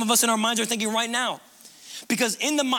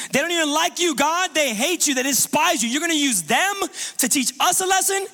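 high, pleading disbelief; alarmed protest; 4 semitones higher than usual. Acted. Prophet Habakkuk protesting to God, high and alarmed. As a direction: cry out at God in shocked protest.

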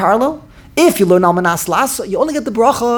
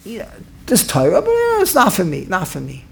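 dismissive voice. Retold or imitated. Mocking someone who says Torah isn't for him, dismissive. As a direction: shrug the Torah off like it's not your business. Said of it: "You're saying".

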